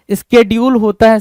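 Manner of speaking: स्केड्यूल with a clear sk start; correct schedule. Shown as a demonstration. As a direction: teach स्केड्यूल as "skedyool". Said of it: "शेड्यूल नहीं होता है".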